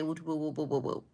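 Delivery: low, soft "woo-woo" babbling; mimicked babble. Imitating a bum bothering the women, low babble. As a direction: trail off in muffled nonsense chatter. Mimics bum's rambling chatter.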